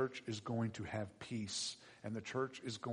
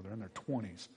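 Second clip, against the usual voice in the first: ordinary delivery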